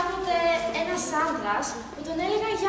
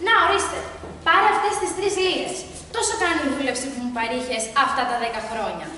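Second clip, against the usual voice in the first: stingy boss; 5 dB louder than usual. Acted. Boss dismissively pays his servant, loud and curt. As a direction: brush him off with a few coins.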